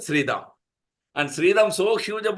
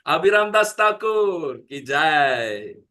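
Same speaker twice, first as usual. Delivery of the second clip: devotional jai call; 3 dB louder, slower than usual. Real, not acted.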